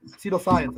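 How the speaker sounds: "Pseudoscience" as see-toh-science; mispronounced. Real, not acted. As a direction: say "Pseudoscience" with a "see" at the start instead of "soo". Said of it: "I said it wrong".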